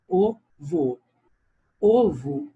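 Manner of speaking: "Ovo" with both o's closed, like ô: OH-voo. Shown as a demonstration. Teacher showing the class the closed o in ovo. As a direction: stress the first closed ô of "Ovo", lips rounded tight. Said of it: "o som do O é fechado".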